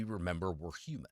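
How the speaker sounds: a whispered, quick closing line. Real, not acted. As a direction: drop to a whisper to land the point. Soft closing point on good news.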